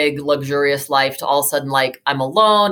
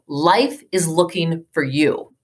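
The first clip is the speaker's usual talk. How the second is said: gentle reassurance; slower than usual. Retold or imitated. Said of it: "He says to me".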